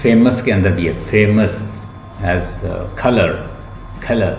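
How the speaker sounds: फेमस, color with weak middle vowel; schwa examples. Shown as a demonstration. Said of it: "श्वा sound".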